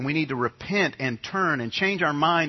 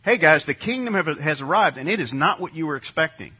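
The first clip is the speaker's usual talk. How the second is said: casual Jesus voice; 3 dB louder than usual. Retold or imitated. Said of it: "he was saying to these people".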